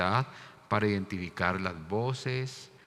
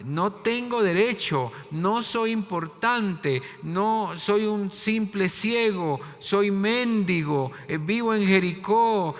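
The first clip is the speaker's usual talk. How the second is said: pleading beggar; 10 semitones higher, 7 dB louder than usual. Acted. Beggar's plea voiced by preacher.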